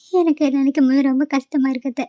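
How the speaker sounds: tearful, voice catching on the words; crying. Acted. Daughter-in-law confiding to her aunt, crying. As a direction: pour out the hurt through tears. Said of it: "இப்படி அழுதுட்டு இருக்கே".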